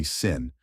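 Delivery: sin said alone, like the word sin; last syllable alone. Shown as a demonstration. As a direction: give just the syllable sin. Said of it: "like the word sin".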